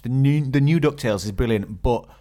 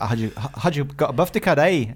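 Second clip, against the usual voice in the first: put-on Scottish accent. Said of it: "I got mine from, uh, watching the Limmy show".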